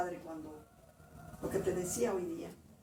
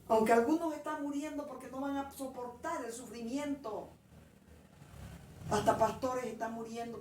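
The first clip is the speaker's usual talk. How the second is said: God venting anger, imitated; 2 semitones higher than usual. God refuses her plea for pardon, venting in imitation. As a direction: imitate a Lord unburdening his anger. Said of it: "Desahogándose".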